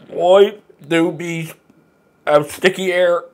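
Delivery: slow words through a mouthful; mouth full. Acted. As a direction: talk around a bite of food. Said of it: "Read the joke like you have a mouthful of food".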